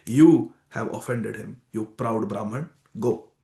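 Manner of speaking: slow, low, stern scolding; stern rebuke. Retold or imitated. Vishnu rebukes the proud Brahman.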